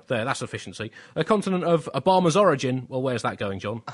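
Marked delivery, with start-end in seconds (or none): 1.2-2.9 mock slogan. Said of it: "typed the words Africa, continent of".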